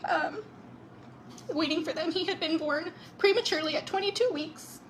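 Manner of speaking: fighting back tears as she tells it; crying. Real, not acted. Sister recounting the baby's arrival, tearfully crying. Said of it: "I'm crying and I'm a hot mess".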